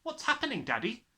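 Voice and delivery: put-on high, alarmed girl's cry. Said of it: "she cried".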